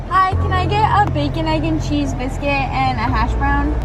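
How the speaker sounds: polite ordering voice. Real, not acted.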